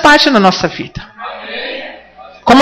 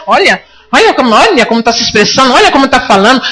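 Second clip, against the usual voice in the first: mocking accuser; 3 semitones lower, faster than usual. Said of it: "Satanás tá apontando".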